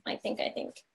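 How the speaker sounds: losing her voice, a bit sick; slightly hoarse, fading quietly. Real, not acted. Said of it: "I'm losing my voice".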